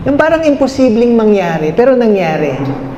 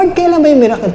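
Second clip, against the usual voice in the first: higher-pitched, mildly whiny mock plea; mock tearful complaint; 6 semitones higher, much faster than usual. Believer who only cries asks God for a miracle, mock complaint. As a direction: imitate someone pleading helplessly with God. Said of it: "pag umiiyak ka lang na ganyan".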